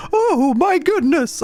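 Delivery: put-on very high, drawn-out girly voice; put-on girl voice. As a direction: pitch it way up like a girl, slowly. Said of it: "every girl voice always sounds the same".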